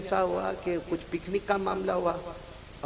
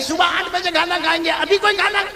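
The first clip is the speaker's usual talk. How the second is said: teacher's reply; 10 semitones higher, 4 dB louder than usual. Retold or imitated. Teacher refusing the child.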